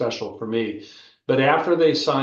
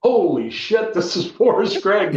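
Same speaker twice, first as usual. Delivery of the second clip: higher and louder, starstruck disbelief; stunned excitement; 7 semitones higher, 4 dB louder than usual. Retold or imitated. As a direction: blurt it out like you can't believe who's calling. Inner reaction to coach's call.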